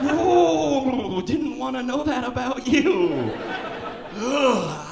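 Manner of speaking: mock disgusted. People reacting in disgust.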